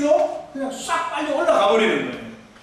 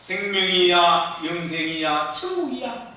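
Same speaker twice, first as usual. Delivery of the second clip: reverent recital; 5 semitones lower than usual. Shown as a demonstration. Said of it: "이 세 단어만큼 아름다운 시가 없다".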